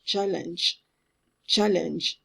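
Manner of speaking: "challenge" stopping on a soft J, E silent; ends on J. Shown as a demonstration. Teacher demonstrates the ending, silent final E. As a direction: say "challenge" with no vowel after the g. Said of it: "J at the end".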